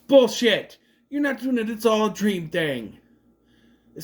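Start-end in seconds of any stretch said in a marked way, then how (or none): 0.1-3.0 mock outburst. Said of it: "and I'm like".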